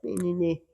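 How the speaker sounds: tight mock whining of a hunched coach; a hammed-up tense nee nee; tense mock whine. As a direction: squeeze out a little tense whine. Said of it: "not up here like".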